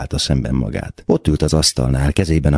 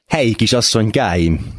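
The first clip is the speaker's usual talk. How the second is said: mild narrated cry, pitched higher; calling out; 6 semitones higher than usual. A narrator's reading. Gavrilescu greets the three girls while wiping his brow, calling out. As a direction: lightly exclaim it, lifting the pitch. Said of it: "kiáltott".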